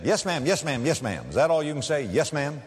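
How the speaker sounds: sassy mocking waitress. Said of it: "she was kinda sassy".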